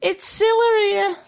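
high falsetto; squeaky Liverpool singer voice; a singer's voice. Pretend. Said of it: "or should I say".

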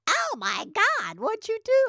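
high, slow gasp of alarm; hammed-up shock at the arm; shocked friend. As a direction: imitate Mallory's horrified reaction. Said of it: "And she goes".

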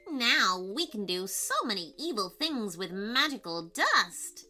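gloating evil pixie voice. Acted. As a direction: sneer it like a wicked pixie. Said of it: "The pixies were laughing nastily".

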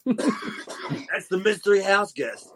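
slow put-on announcer voice; mystery house guest voice. Host naming the mystery caller in a slow put-on voice.

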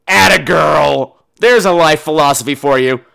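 applaud her heartily, stretching the words; emphatic, admiring call; cheering approval. Acted. Cheering the skipping girl on.

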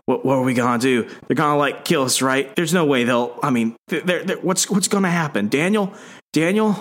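rising, frantic pleading; mild panicked captive; panicked plea. Retold or imitated. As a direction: beg in a panic, voice climbing. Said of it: "he's like".

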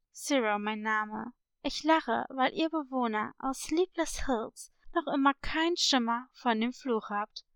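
mysterious parrot stranger. Acted. Unknown parrot introducing himself to villagers, mysterious.

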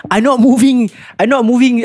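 high, pleading "I'm not moving"; whiny kid protest. Retold or imitated. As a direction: squeak it like a scared cadet. Kid protests to sergeant major.

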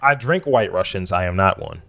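lightly put-on Russian accent; mock Russian accent. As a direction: answer back in a rough Russian accent. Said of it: "You don't have good Russian accent".

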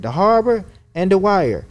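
a hint of the puzzled doctor's voice; imitating the Asian doctor. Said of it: "he was an Asian doctor".

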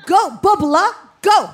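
cheering. Retold or imitated. The pool women urging the timid swimmer on, loud cheer. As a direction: cheer her on down the lane.

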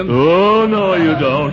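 high, alarmed refusal; backing away in a panic; panicked protest. Acted. Patient refuses the ammonia.

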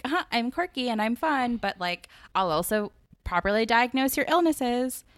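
lightly voiced quirky, fun girl; Jessica Day voice. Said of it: "That was my best New Girl voice".

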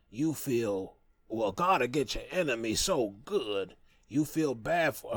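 put-on a light take on an old grandmother, slow; half-hearted impression of great grandma; lightly voiced grandmother, slow; imitating grandma. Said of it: "I'll try to imitate her voice".

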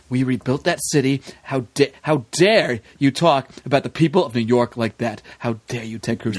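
low, grave mock indignation; somber Donald Trump. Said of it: "He got, like, super somber".

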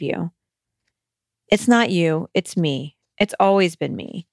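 measured, earnest read-aloud of a personal letter. Acted. Host reads a listener's letter to food, measured and earnest. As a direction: read it as a heartfelt letter, phrase by phrase.

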